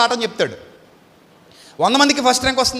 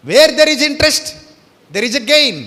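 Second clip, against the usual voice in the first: proclaiming; 5 semitones higher, 6 dB louder, much slower than usual. Acted. Proclaiming a maxim.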